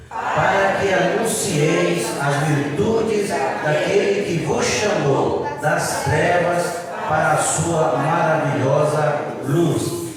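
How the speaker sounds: slow, loud, measured verse reading; congregational scripture reading. Acted. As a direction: lead the whole church through the verse, word by word.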